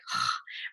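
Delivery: short unvoiced exhale of annoyance; frustrated sigh. Shown as a demonstration. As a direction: sigh it out, fed up. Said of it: "It's like".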